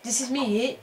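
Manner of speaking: put-on London chav accent; fake chav voice. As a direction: talk like a chav. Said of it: "Doing the fake chav voice".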